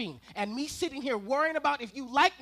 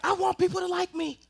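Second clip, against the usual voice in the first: higher, pleading need to be liked; whiny plea; 9 semitones higher, 4 dB louder than usual. Acted. Comic repeating how he wants to be liked. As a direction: beg to be liked.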